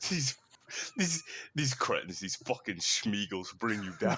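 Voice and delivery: slow, imitated British rant; British motivational scolding, stretched out; British YouTuber. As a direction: draw out the insults in a mock British accent. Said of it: "He's from the U K".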